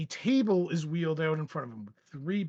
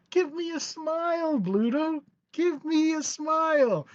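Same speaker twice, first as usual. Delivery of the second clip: Joker coaxing; 10 semitones higher than usual. Acted.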